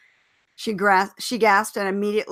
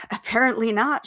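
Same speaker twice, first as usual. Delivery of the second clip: huffy; 3 semitones higher, 3 dB louder than usual. Acted. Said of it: "she huffed".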